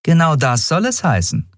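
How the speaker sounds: a smile in the voice; captain smiling as she accepts the boy. Acted. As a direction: say yes kindly. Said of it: "Kapitän Nagun lächelte".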